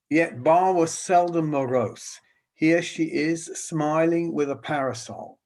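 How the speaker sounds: measured, slightly lifted reading voice; slow reading aloud. Real, not acted. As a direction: read the verse out to the audience. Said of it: "I'll read slowly".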